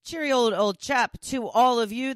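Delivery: a bad stab at British, all in fun; attempted British accent. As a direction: toss off a cheery British chap greeting. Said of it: "That sounds a little British, not Irish".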